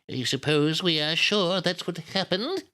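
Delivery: put-on high, slow old-lady voice. A narrator's reading. Miss Miller questioning grieving Nita, slow old lady. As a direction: draw it out as a genteel old woman. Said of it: "she's an old lady".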